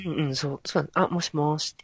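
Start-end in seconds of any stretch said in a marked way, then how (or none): 1.1-1.8 a lightly feminine hello in natural pitch; low female voice. Shown as a demonstration. Showing a female voice in natural pitch. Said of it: "こういう感じ".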